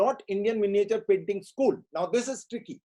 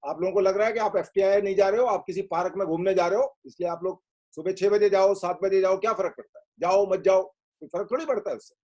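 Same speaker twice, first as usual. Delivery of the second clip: loud, fast sarcastic telling-off; mock the careless students, rattle it off loudly; biting, rapid-fire sarcasm at the latecomers; sarcastic scolding; 4 dB louder, much faster than usual. Real, not acted. Teacher mocks late students' excuses.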